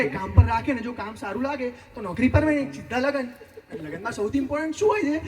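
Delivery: fast-building monologue of grievance; exasperated comic rant. Acted. Yash tells his friend what the problem is, exasperated ranting. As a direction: vent to your friend like a fed-up boyfriend.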